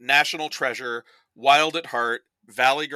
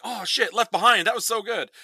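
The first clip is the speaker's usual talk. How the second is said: hammed-up fake delight, pitched higher; mock fan gushing; 7 semitones higher than usual. Imagined fan raving over a bad movie, mock gushing. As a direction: pretend to rave about a bad movie. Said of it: "everyone listening is gonna be like".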